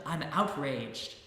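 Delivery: slow, loud, spat-out fury; outraged shout. Acted. Angry man declaring his outrage, slow loud shout. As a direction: drag out each word in rage. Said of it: "the man shouted".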